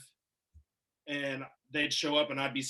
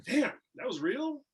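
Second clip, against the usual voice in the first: higher and slower, amazed; stunned disbelief; 9 semitones higher, slower than usual. Retold or imitated. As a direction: let it dawn on you slowly. Realizing the contract is real.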